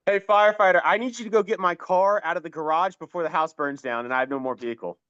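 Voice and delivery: pleading to firefighters. Pretend. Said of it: "How are you gonna speak to the firefighters?".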